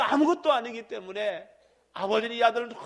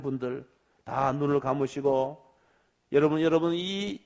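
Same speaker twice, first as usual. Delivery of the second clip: lower, softer prayer-time invitation; altar call; 6 semitones lower, 4 dB quieter than usual. Real, not acted. Pastor inviting the congregation to close their eyes and pray, softly.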